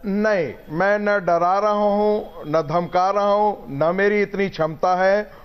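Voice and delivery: words bouncing back with echo; echo on the line. Real, not acted. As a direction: voice echoing down a remote line. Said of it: "बहुत इको आ रहा है".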